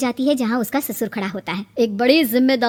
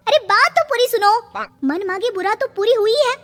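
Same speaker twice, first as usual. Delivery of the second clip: agitated; 10 semitones higher than usual. Acted. Daughter blurting news to mother.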